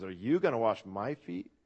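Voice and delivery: lighter repeat, YOU and MY leaned on, falling at the end; stress on YOU and MY. Shown as a demonstration. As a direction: lean on "you" and "my" as the surprising words. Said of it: "that's the emphasis".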